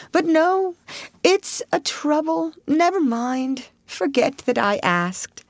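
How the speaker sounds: self-pitying martyr; martyred toad. Acted.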